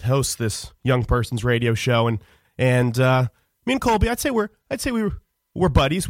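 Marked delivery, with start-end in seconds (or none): 3.6-6.1 awkward hesitation. Acted. Hesitant over friendship status.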